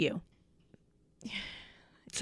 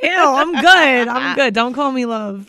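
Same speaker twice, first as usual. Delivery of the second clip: disgusted; 3 semitones higher, 6 dB louder, slower than usual. Real, not acted. Disgusted reaction.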